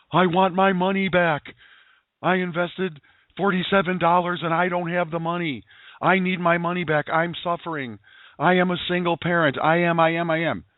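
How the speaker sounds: hammed-up panicked customer demanding a refund; mock yelling customer. Member yelling at Joe on Facebook, mock whiny shout. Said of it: "they're yelling at me".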